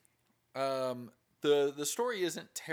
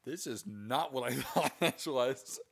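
laughing disbelief. Retold or imitated. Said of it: "you're like".

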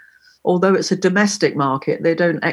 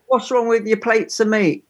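a light Cockney lilt on plates of meat; Cockney slang line; 3 semitones higher than usual. Shown as a demonstration. Teaching a friend Cockney slang, light Cockney teasing. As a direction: say it like a Londoner teasing a mate. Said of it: "If you were walking in a strange way, I'd say".

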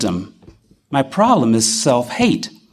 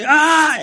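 retold cry; 11 semitones higher than usual. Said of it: "I'm just crying".

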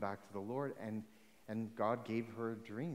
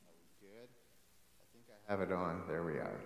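tinny mic like in a barrel; talking through a tinny mic; tin can sound; 3 semitones lower than usual. Real, not acted. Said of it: "I sound like I'm in a tin can".

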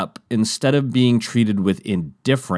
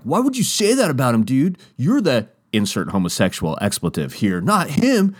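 high, indignant bro voice; hammed-up indignant skater; mock angry skater; 5 semitones higher than usual. The speaker defending Jeff, high mock indignation.

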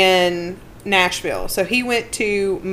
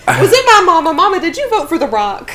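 laughing call-out; 8 semitones higher, 3 dB louder than usual. Real, not acted.

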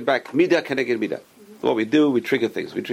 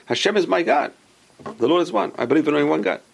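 heartfelt declaration, higher; sincere recitation; 4 semitones higher than usual. Shown as a demonstration. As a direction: say it meaning every word. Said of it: "gotta actually think it".

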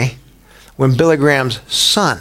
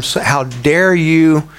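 mock outrage; slower than usual. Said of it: "railed against Billy Graham".

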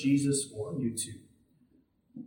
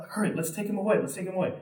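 hustling bystander; 3 semitones higher, much faster than usual. Acted. Acted bystander hustling the man off.

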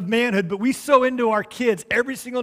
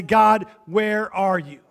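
slow, drawn-out question to God; honest plea; 3 dB louder, slower than usual. Acted. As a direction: ask God plainly, stretching each word. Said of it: "honest with God and say".

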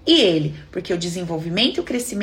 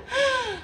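mock gasp of realization; sharp acted intake of breath; shocked gasp; 14 semitones higher, 6 dB quieter than usual. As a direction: gasp as if it just sank in. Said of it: "o que que o inconsciente dela registra".

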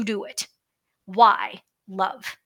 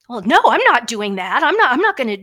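defiant refusal; 2 semitones higher, 6 dB louder than usual. Retold or imitated. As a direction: bristle as the housemate who won't wash. Acting out housemate's refusal.

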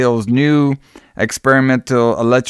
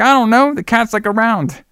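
high evasive; 10 semitones higher than usual. Retold or imitated. Dan dodging the cat question.

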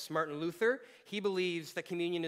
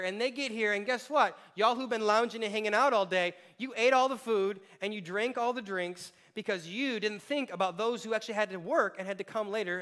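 Paul scolding; 4 semitones higher, 4 dB louder than usual. Retold or imitated. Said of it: "Because he's like".

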